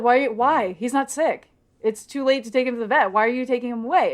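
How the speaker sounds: quick, lightly acted fretting over a pet; freaking out. Melissa to Chapman about her cat being taken, lightly freaking out. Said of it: "she's, like, freaking out".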